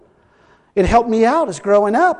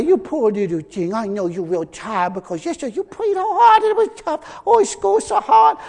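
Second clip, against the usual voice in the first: mock pampering mother; 3 semitones higher than usual. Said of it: "She wouldn't say".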